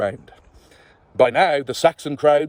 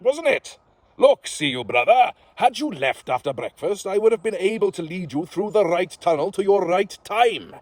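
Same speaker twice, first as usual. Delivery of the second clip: a hint of a sly Welsh host, higher; lightly voiced sly host; 5 semitones higher than usual. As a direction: offer a job like a wily underworld lord. Gwyn the host speaks.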